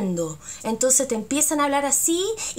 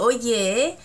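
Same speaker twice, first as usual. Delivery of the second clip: teasing Chilean friend; slower than usual. Shown as a demonstration. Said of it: "Como diciendo".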